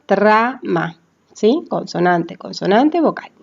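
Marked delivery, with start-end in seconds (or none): 0.1-1.0 "Trama" split as tra, ma; syllable by syllable. Shown as a demonstration. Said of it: "O consonante".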